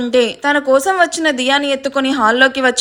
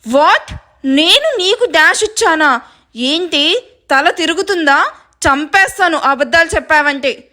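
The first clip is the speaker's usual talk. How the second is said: shocked indignation turning to a threat; 3 semitones higher than usual. Acted. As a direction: stretch the words in outraged disbelief. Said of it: "Nishan shock అయ్యి".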